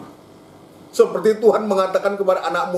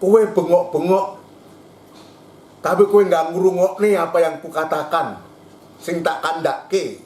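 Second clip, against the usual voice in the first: Javanese rebuke. Acted. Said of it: "Kalau bahasa Jawa".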